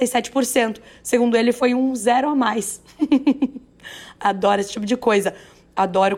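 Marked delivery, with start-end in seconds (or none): 3.0-3.6 short laugh. Real, not acted. Laughs at company blunder.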